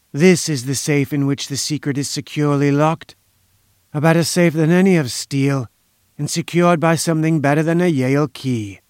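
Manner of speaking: put-on self-important inventor, lightly accented; silky foreign schemer. Inventor boasting that only he holds the secret, lightly smug. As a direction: boast with measured assurance, faintly foreign.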